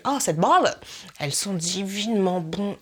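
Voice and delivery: gushing put-on Québécois accent. Mimicking vloggers praising a bath bomb, Québécois accent. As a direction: exaggerate the vowels, Québécois-style. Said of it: "je fais aussi l'accent québécois".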